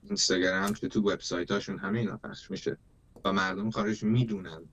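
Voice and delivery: fast, earnest message straight to the listeners; rapid reassuring address. Acted. Speaking to dear friends in Iran, fast and reassuring. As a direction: rush through it to reassure the audience.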